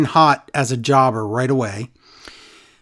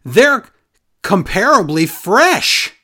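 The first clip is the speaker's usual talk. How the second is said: high, slow mocking commentator; 5 semitones higher, 5 dB louder, much slower than usual. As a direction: drag it out mocking Jimmy. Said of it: "Jimmy says".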